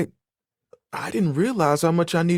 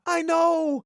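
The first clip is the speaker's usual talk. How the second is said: excited shout; 11 semitones higher than usual. Acted. Proud reveal of towel creation.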